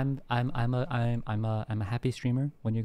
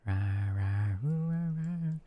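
playful little roar; slower than usual. Pretend. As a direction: roar gently, sparing the throat. Softer playful roars after throat remark.

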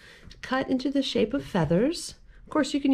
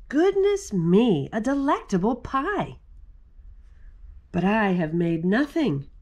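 bear voice. Acted. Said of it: "he adds with a sigh".

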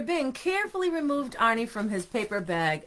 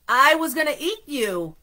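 louder, higher startled admission; shocked reply; 4 semitones higher, 7 dB louder than usual. A narrator's reading. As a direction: blurt it out in shock. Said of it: "he replied in shock".

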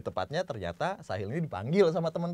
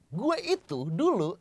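slow, higher delivery leaning on each word; penekanan kata; 8 semitones higher, slower than usual. Shown as a demonstration. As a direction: stretch "gue itu dulu" with emphatic pitch. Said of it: "Nih, gini nih Bim". (tekankan "gue itu dulu" pelan-pelan)

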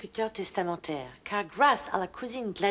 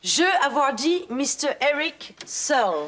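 louder, higher, firm order; stern command; 5 semitones higher, 4 dB louder than usual. Acted. The English lady sends the roommates out, with a stern order. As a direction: put your foot down.

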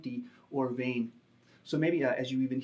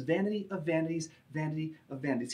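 vanity of vanities stressed, the second quicker; emphatic repetition. Shown as a demonstration. Preacher to his congregation, emphatic repetition. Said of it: "He repeats it over and over again".

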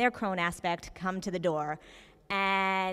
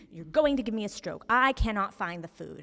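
mock angry old woman; 4 dB louder than usual. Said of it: "a very irate, angry woman".

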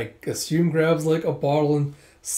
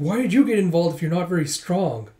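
higher acted exasperation; complaining; 4 semitones higher, 3 dB louder than usual. Girl questions why Yona got involved, complaining. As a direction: fuss at your rescuer.

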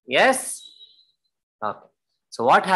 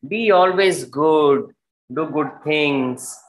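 put-on slow, solemn parting words to a child; a mother's last advice, slowly; slow tender farewell; slower than usual. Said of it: "why she's talking like this".

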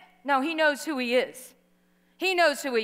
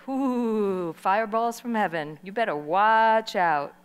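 mock boasting; 4 semitones lower than usual. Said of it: "my human nature says".

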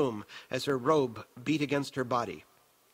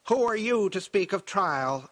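raised, querulous autocrat; querulous man; 6 semitones higher, 4 dB louder than usual. A narrator's reading. Possessed woman speaking as the old Baron, querulous. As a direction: challenge it like a self-indulgent tyrant. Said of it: "her voice was that of a querulous man".

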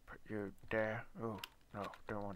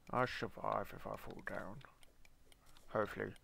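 whisper. Real, not acted. Nervous about the fall.

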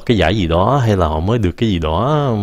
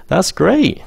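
high, excited; 10 semitones higher than usual. Shown as a demonstration. Teacher modeling an excited That's great for learners. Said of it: "Lên giọng".

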